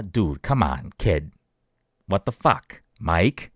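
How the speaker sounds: put-on rough it up like a Boston kid on the street; Boston accent. Shown as a demonstration. Host demoing a Boston tough-guy voice to his cohost. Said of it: "you gotta kinda have, like, this".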